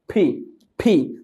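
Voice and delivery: ফি with a burst of air from closed lips; aspirated P. Shown as a demonstration. Teacher showing aspirated P as ফি. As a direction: pop the lips open on ফি. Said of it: "দুই ঠোঁট বন্ধ করে একটা বাতাস বের হবে".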